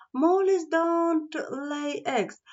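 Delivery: high, slow owl voice; wise Owl. Acted. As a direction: owl explaining patiently to Mole. Owl explains to mole.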